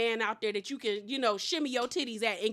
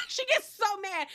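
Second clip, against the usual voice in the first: laughing; 8 semitones higher than usual. Real, not acted. Laughs at the drama.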